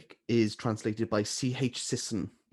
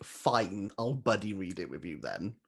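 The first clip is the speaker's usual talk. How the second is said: a grudging, sarcastic mutter; reluctantly agreeing, dry and put-upon; 4 semitones lower, 6 dB quieter than usual. Retold or imitated. Recalling a friend's buddy-read offer, sarcastic. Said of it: "a sarcastic comment being like".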